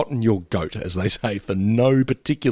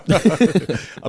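cartoon dog noise; 6 semitones higher than usual. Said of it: "or a cartoon dog going".

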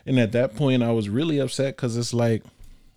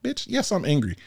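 angry retort; 5 semitones higher than usual. Retold or imitated. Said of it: "I'm like".

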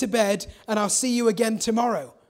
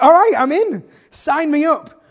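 loud, high and eager; eager volunteer; 5 semitones higher, 9 dB louder than usual. Retold or imitated. Young David excitedly signing up for the reward, loud. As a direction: jump at the chance, all in. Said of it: "And so David's like".

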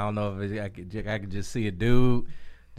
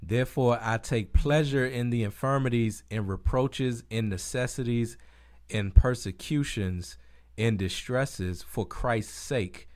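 slow, measured Bible reading; scripture reading; slower than usual. Acted. To a co-host on air, reading Corinthians slowly and reverently. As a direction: read the verses slowly, with reverence.

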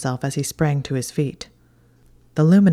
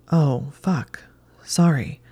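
whispering; slower than usual. Acted. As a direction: whisper it in surprise. His startled apology.

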